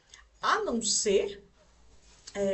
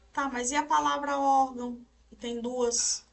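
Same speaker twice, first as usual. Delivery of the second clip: lightly voiced objecting student, higher and louder; questioning student; 4 semitones higher, 4 dB louder than usual. Teacher voicing a student's doubt about órgão, questioning. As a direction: raise the pitch for a student's challenge. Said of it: "você pode questionar".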